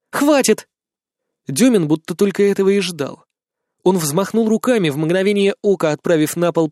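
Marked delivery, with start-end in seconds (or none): 0.1-0.7 stop him. A narrator's reading. Woman stopping drunk friend.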